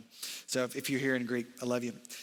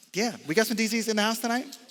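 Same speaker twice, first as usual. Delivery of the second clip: higher, hyped shout to the room; preacher calling out to Delta Zeta members, hyped; calling out to the crowd; 6 semitones higher than usual. Real, not acted.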